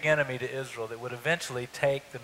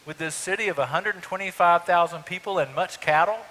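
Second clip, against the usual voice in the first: indignant Jonah; 5 semitones higher, 4 dB louder than usual. Retold or imitated. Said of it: "He says".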